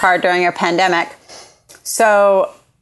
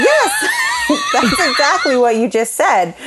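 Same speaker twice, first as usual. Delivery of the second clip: laughing shout; 7 semitones higher, slower than usual. Retold or imitated. To the clerk who called her chick, laughing shout. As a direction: blurt it out, cracking up.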